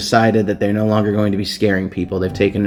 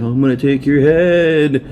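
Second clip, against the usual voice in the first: Seth; 5 semitones higher, slower than usual. Retold or imitated. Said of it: "'cause he's like".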